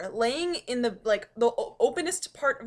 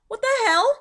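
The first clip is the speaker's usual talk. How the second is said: voicing the cat; 10 semitones higher, 9 dB louder than usual. Cat's reaction voiced.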